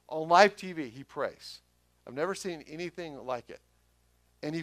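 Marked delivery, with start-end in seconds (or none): 0.1-0.9 emphatic. Shown as a demonstration. Repeating the phrase for emphasis.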